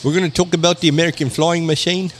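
light mock British accent newsreader. Co-host riffing on Canadian news, loose mock British accent. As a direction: put on a loose British accent like a stuffy presenter. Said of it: "I don't know why they're British all of a sudden".

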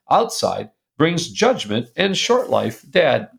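deliberate, admonishing reprimand read aloud; stern fatherly letter. Retold or imitated. Dad rebuking his son in an old letter, stern. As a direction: read it as a lecturing dad, weighing each warning.

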